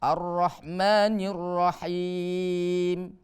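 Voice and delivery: very slow recitation, long held final syllable; Quran recitation demo. Shown as a demonstration. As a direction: draw out the long vowels evenly. (bacaan tartil, mad dipanjangkan)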